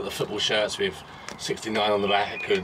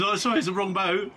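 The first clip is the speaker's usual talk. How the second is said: put-on lightly slurred drunk apology; a hint of slurring drunk; town drunk; 8 semitones higher than usual. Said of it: "like, slurring his words".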